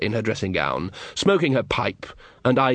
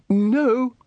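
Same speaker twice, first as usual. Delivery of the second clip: high, hasty denial; sharp high no; 12 semitones higher than usual. Acted. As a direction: cut in fast. Ridcully hastily denying.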